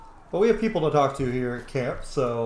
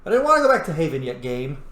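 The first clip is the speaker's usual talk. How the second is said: exasperated complaint; 6 dB louder than usual. Real, not acted. Complaining to the game.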